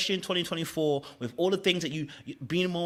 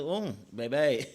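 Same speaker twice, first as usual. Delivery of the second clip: slow, drawn-out playful swoon; teasing, long-held vowels; mock smitten; 4 semitones higher, slower than usual. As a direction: stretch it out in hammed-up delight. Playing his smitten reaction.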